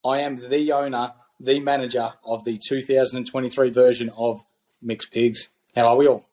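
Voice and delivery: booming ringmaster welcome; announcer intro. Acted. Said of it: "come up with a little bit of an intro".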